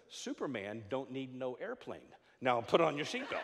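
mildly gentle retort; lightly acted kind stewardess; kindly. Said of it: "very kindly said".

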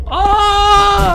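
long, very high "aah" of fright; sudden high-pitched shriek; startled scream. Real, not acted. Jump scare touching a wire. (깜짝 놀라 높게 길게 비명)

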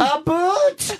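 high mocking Canadian accent; mock a bad Canadian accent. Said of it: "That was supposed to be Canadian?".

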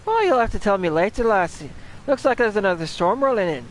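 put-on Scottish accent. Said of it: "That's Scottish, isn't it".

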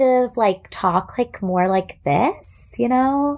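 appeasing phone voice, slowed right down. Shown as a demonstration. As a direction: voice lifted up, slow and drawn out. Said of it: "my voice goes up a little bit in pitch".

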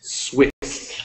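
"Swiss" with long hissed s sounds; teacher's drawn-out "Swiss"; careful pronunciation. Shown as a demonstration. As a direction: model "Swiss" slowly, stretching each s. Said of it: "So you say".

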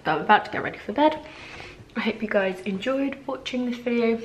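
talking with her mouth full of chocolate. Real, not acted. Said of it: "Sorry, I've got my mouth full".

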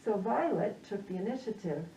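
muffled speech behind a mask; talking through a mask, slightly muffled; through a face mask. Real, not acted. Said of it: "it feels a little awkward to be talking through this mask".

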